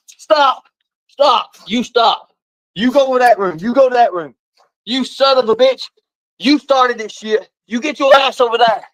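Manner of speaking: real exasperated hollering; angry commands. Real, not acted. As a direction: order the dogs apart, forcefully. Ordering the fighting dogs apart.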